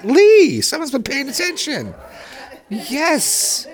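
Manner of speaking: pleased laugh through the words. Real, not acted. Teacher praises student Lee who answered right, laughing.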